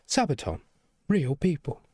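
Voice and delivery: amused repeat with a laugh. Real, not acted.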